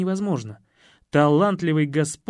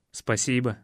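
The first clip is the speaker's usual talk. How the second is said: tender thanks; 4 semitones lower than usual. Acted. Ваня благодарит собаку — нежное тихое «спасибо».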